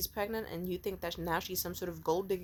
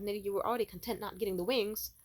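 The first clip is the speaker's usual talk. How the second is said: loud, rising angry rant; real flash of anger, much louder and higher; got mad; 4 semitones higher, 7 dB louder than usual. Real, not acted. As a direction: really lose it over the wings. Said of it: "Sorry, I got mad for a second there".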